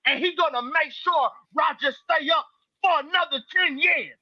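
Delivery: lightly voiced King Loski, folksy and griping; King Loski persona. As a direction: grumble in the persona of King Loski, calling everyone out. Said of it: "joining us right now is King Loski".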